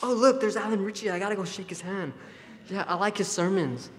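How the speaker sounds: mock starstruck fan. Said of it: "You Church of Christ people are weird".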